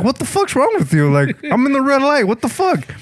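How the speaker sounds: high, angry retort, half-acted; pissed off. Driver hit at a red light, acting angry. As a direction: snap back at him, acting pissed. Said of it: "I was pissed".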